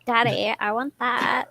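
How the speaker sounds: put-on slow, whiny spoiled rich girl; bubbly sorority girl. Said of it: "Tori Spelling skit".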